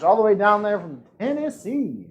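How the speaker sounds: bad Tennessee accent. Host announcing second place from Tennessee, bad Tennessee accent. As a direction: have a clumsy go at a Tennessee accent. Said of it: "not a good Tennessee accent".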